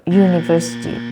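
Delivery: "university" with the stress moved off VER; misplaced stress. Shown as a demonstration. Teacher shows what they will say, misplaced stress. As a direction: lean on the front of "university", not VER. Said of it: "they will say".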